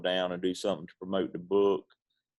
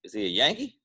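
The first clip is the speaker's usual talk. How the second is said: movie quote; 2 semitones higher than usual. Retold or imitated. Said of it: "he goes".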